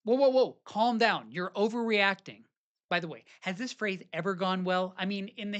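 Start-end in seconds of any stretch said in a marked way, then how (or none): 0.0-2.4 raised, brushing-off "calm down"; a hammed-up husband shutting her down; mock dismissive. Shown as a demonstration. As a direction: wave her off like she's too much. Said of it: "How about this one?".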